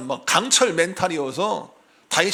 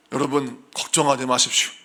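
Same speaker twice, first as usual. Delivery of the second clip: mock bold pastor; 3 semitones lower than usual. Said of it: "아, 이렇게 해야 믿을만 하지".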